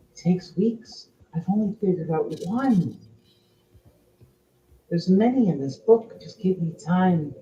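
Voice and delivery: lightly voiced princess, protesting softly; Princess Ophelia. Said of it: "As the Princess Ophelia goes".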